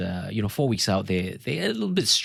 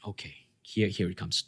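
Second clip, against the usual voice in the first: hushed whisper to himself; whispered aside; 6 dB quieter than usual. Retold or imitated. Coach whispering to himself as the client's question arrives, hushed. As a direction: breathe it out like bracing for bad news. Bracing for the confession.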